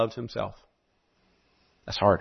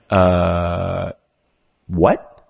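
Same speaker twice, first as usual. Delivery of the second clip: a baffled pastor, slow and booming; incredulous pastor; 4 dB louder, much slower than usual. Acted. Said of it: "And the pastor's like".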